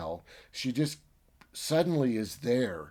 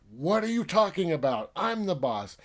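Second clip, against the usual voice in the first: high, outraged, disbelieving; indignant protest; 7 semitones higher, 4 dB louder than usual. Retold or imitated. Boss rejecting rival's claim, high indignant protest. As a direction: challenge his claim to be boss. Scientists fight over who's boss.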